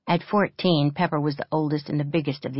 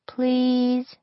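pleading; 9 semitones higher than usual. A narrator's reading. Child begging.

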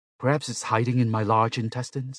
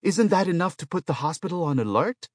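very high, loud, worked-up pleading; alarmed protest; 14 semitones higher, 6 dB louder than usual. A narrator's reading. Patient warns the robot about the other patients, alarmed protest. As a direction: protest in mounting paranoid alarm. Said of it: "Yang Wei protested".

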